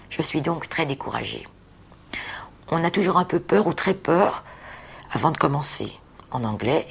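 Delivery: understated essay reading, phrase by phrase; reading aloud. Real, not acted. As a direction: read a written self-portrait to the listener. (lecture à voix haute d'un texte écrit)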